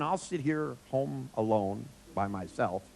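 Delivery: slow, put-upon sigh of a lonely grandma; martyred grandmother. Retold or imitated. Grandmother sending boys out, slow martyred grumble. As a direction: drag it out to make them feel guilty. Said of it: "she'd go".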